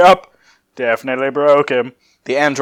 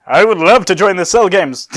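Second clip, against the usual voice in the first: imitating the other player's character; a light take on Sissel, eager; Sissel's voice; 5 semitones higher, 4 dB louder than usual. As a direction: borrow your friend's Sissel voice. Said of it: "really good impression of me".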